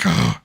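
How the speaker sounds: low, re-enacted sigh of worry; worried sigh. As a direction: let out a low, resigned "oh". Retold worry when wife goes out.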